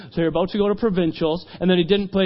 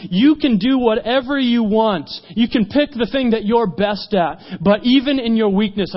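emphatic challenge; 4 semitones higher, 4 dB louder than usual. Retold or imitated. Jesus challenges the fishermen.

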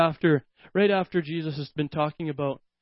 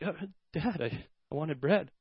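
puzzled son; 7 dB quieter than usual. Retold or imitated. Confused son answers father.

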